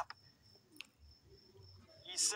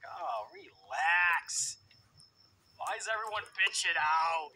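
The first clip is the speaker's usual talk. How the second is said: mock Strowman; 6 dB louder, slower than usual. Mocking Strowman's dismissive reply.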